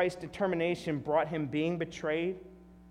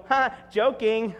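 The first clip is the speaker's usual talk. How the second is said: mock trickster; 4 dB louder than usual. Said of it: "He didn't go".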